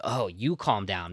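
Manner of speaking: calming down. Retold or imitated. Hearing the calm officer on the radio, calming down. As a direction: ease down slowly and settle. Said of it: "because that guy's calm".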